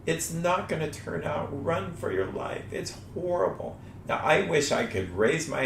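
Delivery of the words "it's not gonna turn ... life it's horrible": higher, mock-panicked thoughts in a rush; panicky inner voice. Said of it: "The logismi are there to say the exact opposite".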